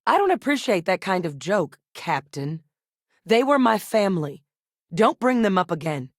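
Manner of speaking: firm, loud warning, stressed openings; angry rebuke. Acted. Rebuking the captain for joking about their family, angry. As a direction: come down hard on each phrase.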